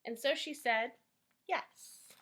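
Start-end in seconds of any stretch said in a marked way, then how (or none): 1.5-2.1 a soft breathy whisper of yes; shy whispered answer. A narrator's reading. Rapunzel answers the prince.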